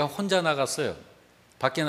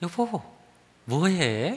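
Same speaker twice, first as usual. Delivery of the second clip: happy, delighted, cheerful intonation; 2 semitones higher than usual. Retelling his wife's question after dishwashing, imitating her pleased tone. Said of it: "아내가 하는 걸 최대한 흉내를 좀 내본 건데 ... 되게 기분 좋아하는 억양이었어요".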